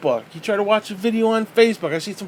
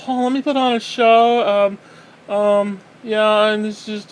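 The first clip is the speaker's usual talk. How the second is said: mock fake performer; 2 semitones higher, 4 dB louder than usual. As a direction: mimic someone hamming it up, stretching the words. Mocks fake performers putting on a show.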